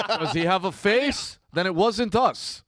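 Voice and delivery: high, slow, laughing through a mob joke; amused, drawn-out tease; laughing mock question. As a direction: giggle the question out slowly. Joking about mob witnesses.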